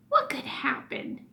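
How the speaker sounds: put-on hushed whisper of a boy's thought. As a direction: breathe the words as a secret.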